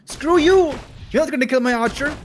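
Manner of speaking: high, loud, fast mock defiance; defiant Night Elf. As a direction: yell it like a cocky gamer. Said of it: "That Night Elf saying".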